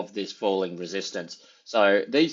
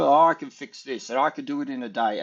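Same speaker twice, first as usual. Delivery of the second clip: lightly mocked boaster, pitched up; mild mock overconfidence, higher voice; Trump; 6 semitones higher than usual. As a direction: imitate someone overpromising, a bit higher. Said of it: "he's forever".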